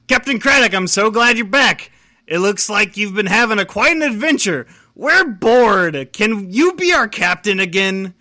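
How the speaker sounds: pirate crew voice. Acted.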